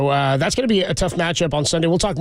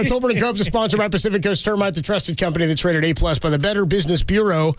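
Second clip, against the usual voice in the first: even, clear sponsor read; radio ad read. Acted. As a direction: read the sponsor spot like an announcer.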